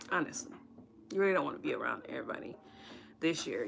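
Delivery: hushed, breathy confidential aside; soft whispered confession. Real, not acted. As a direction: lean in and whisper it like a secret.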